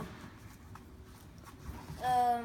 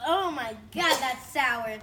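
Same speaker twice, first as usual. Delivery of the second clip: eating sour candy; 10 dB louder, slower than usual. Real, not acted. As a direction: shout as the sour taste hits. Tasting sour slime.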